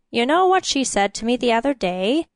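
put-on gossipy old charwoman voice; a nosy old woman sharing gossip; chatty grumbling charwoman.

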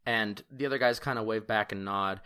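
ordinary delivery

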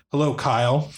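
flat robotic monotone. Acted. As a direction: say it in dead monotone. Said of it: "in the most monotone voice ever".

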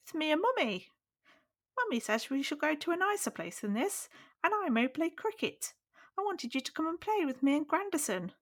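put-on very high, squeaky small child calling up the stairs; eager little boy's voice far above the narrator's own; weird little boy voice. A narrator's reading. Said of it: "giving Ronnie a really weird voice".

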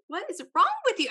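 high-pitched, appalled mock rebuke; retold scolding. Telling off a friend for picking on her mom, high appalled scolding. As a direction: gasp it out in high, half-laughing disbelief.

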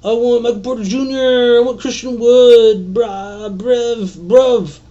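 high, put-on voice of greedy fantasy players; mocking eager fantasy drafters. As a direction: whine like a hyped fan wanting young stars. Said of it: "Everybody's gonna be like".

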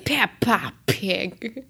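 a hint of a slow British accent; lightly put-on British accent, very slow. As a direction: drawl it out in a mock British accent. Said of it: "that's just my British accent".

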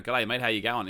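lightly put-on Australian accent; joke Australian accent. Shown as a demonstration. Podcaster showing his joke accent, light mock Australian. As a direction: toss in a mock Australian greeting. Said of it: "I'll put on a really Australian".

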